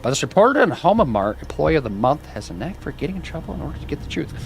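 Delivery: reading out an in-game news story; lightly voiced news read; news report read. Reads in-game news text aloud.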